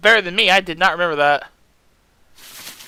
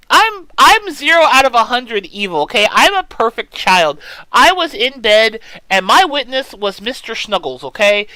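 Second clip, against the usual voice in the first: loud insistence; 3 semitones higher, 6 dB louder than usual. Real, not acted. Insisting her character is innocent.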